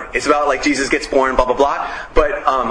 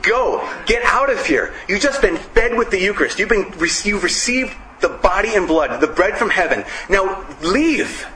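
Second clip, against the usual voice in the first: higher, pushy send-off, imitating the priest; urging priest; 4 semitones higher than usual. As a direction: shoo them out the door, mock-urgent. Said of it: "the priest is basically flicking the light saying".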